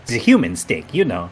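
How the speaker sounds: mock-dramatic reveal in a hammed-up French accent; a sly French-accented confession; host reveals he is from another universe, in mock French; fake French accent. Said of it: "outrageous French accent".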